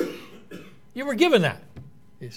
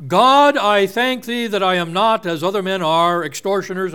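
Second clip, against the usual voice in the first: a hint of a pompous Pharisee; smug Pharisee; 3 semitones higher, 5 dB louder than usual. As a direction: pray like a man pleased with himself. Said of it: "Christ tells the story".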